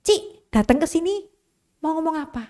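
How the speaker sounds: gentle pastor. Retold or imitated. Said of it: "pendetanya kayak gini". (pendeta menyapa dengan lembut, nada lebih tinggi)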